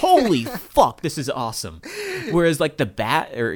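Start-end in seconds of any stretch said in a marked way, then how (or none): 0.0-1.8 excited. Retold or imitated. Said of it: "It was like".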